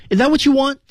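high-pitched "is that what you want", run together; quick linked question. Shown as a demonstration. Teacher demonstrates the whole line for learners, linked and high. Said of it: "这句话说的语速儿比较快".

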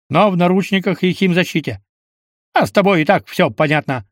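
crisp commanding officer tone; another voice. Acted. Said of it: "сказал он уже другим голосом".

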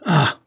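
short, high, loud "Ah!"; sharp outburst of shock; terrible cry. A narrator's reading. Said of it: "Saphir jeta un cri terrible". (cri bref et terrible)

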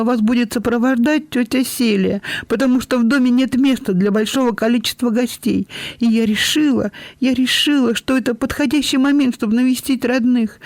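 put-on high, breathless girl's voice rushing to explain; a young girl on her knees, anxious to be forgiven; pleading young girl. A narrator's reading. Белинда на коленях оправдывается перед тётей, торопливо и высоко.

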